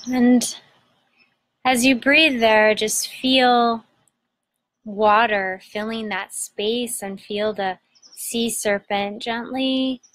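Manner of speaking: unhurried meditation guide, long pauses between phrases; guided meditation. Acted. Host guiding listeners to breathe into their belly, guided meditation.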